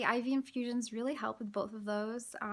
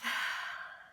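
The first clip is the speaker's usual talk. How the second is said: tired sigh. Real, not acted. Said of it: "I'm getting out of breath".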